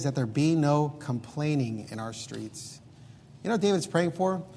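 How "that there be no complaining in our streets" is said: slow, dwelt-on reading of the verse; slow, weighty scripture reading; slow scripture quote. Shown as a demonstration. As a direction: let each word of the verse land slowly. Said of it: "And then he says".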